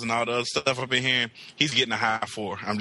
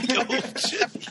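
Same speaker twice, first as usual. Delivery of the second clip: hammed-up fake Southern accent; 10 semitones higher, slower than usual. Mocking New Yorkers faking Southern accents, hammed-up laughing drawl. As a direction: overdo the fake Southern drawl while cracking up. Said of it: "people from New York who try to have Southern accents".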